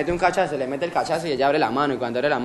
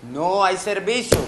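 slow, higher mock refusal; imitated refusal; 5 semitones higher, 3 dB louder, slower than usual. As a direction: draw out the clerk's refusal. Chancera le niega el servicio. (negativa imitada, lenta y más aguda)

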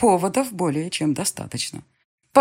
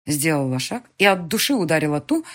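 usual speaking voice

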